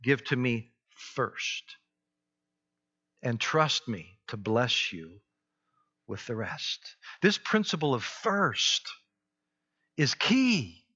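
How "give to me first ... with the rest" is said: gentle God's voice. Acted. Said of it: "God says".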